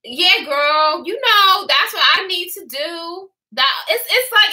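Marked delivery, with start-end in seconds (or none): 0.0-3.3 lightly mocked forced Louisiana accent; put-on Louisiana accent. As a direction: imitate an overdone Louisiana girl. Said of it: "It's not even like that. It's like".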